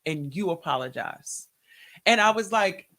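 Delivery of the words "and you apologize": low, measured command; relentless God. Retold or imitated. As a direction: lay down a command that allows no argument. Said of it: "he was relentless with it".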